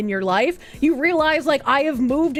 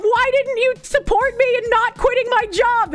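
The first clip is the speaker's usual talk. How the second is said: mocking the wife; 8 semitones higher than usual. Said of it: "She's just like".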